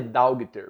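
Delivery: "dogter" said as DAU-gui-ter, with a hard g; Portuguese-rule misreading. Shown as a demonstration. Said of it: "aplicar a regra da língua portuguesa".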